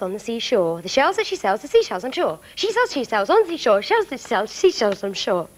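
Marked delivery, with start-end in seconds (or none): 2.5-5.5 1 fast tongue twister. Shown as a demonstration. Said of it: "It's a very difficult one".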